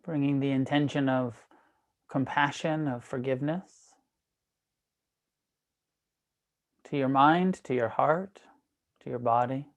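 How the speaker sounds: measured meditation guide, long pauses between phrases; guided meditation. Real, not acted. Teacher guiding an online class into breath awareness, guided meditation.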